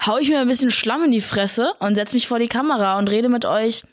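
flat monotone voice; deadpan, barely moving. Real, not acted. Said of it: "in einem sehr monotonen Ton".

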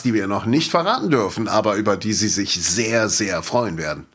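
movie trailer announcer. Pretend. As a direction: hype it like a trailer voiceover. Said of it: "ich bin immer der Trailersprecher".

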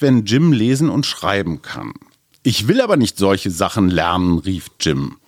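put-on reading a children's book aloud with voices; story reading. Host reads a Jim Knopf passage to his co-host, storybook voice. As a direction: tell it like a bedtime story.

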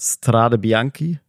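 "Strade Bianchi" slowly sounded out, rising at the end; "Strade Bianchi" drawn out as a questioning attempt; tentative Italian pronunciation. Real, not acted. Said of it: "ich weiß nicht, wie es ausgesprochen wird".

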